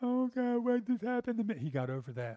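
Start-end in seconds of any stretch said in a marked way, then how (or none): 0.0-1.6 very high, whiny, pleading voice, acted out. Describing how he prayed instead of complaining, with mock whining. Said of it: "He wasn't whining".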